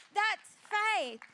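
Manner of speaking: loud repeated proclamation, held firm; emphatic declaration. Real, not acted. Preacher to congregation, repeating it loud. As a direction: hammer the point home a second time.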